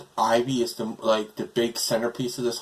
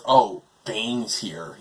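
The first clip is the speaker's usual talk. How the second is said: mocking villains; much slower than usual. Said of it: "they're like".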